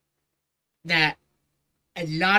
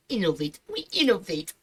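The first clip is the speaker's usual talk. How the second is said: mocking quote. Real, not acted. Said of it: "quotation thing".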